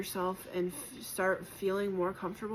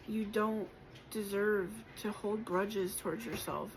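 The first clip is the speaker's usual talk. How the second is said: getting emotional; 2 semitones higher than usual. Real, not acted. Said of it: "I'm getting a little emotional".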